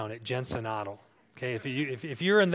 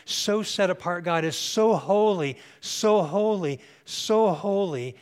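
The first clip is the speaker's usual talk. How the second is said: rising emphasis; 4 semitones higher, 6 dB louder than usual. Real, not acted. Preacher building emphasis on holiness.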